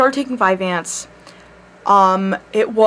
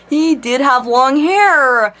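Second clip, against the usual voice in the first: giggling through the words, stretched out slowly; laugh-crying as you admit it; laughing while talking; 3 semitones higher, much slower than usual. Real, not acted. Laughing about crush's long hair.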